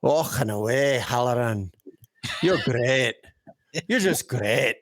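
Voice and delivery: badly faked Indian accent; joking, off-target Indian accent demo; supposed Indian accent. Shown as a demonstration. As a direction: show off a shaky attempt at an Indian accent. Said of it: "That was my Indian accent".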